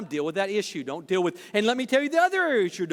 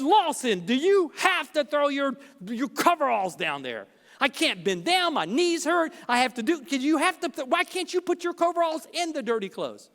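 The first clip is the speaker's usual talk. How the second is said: exasperated complaint; 5 semitones higher than usual. Retold or imitated. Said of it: "not in a good tone".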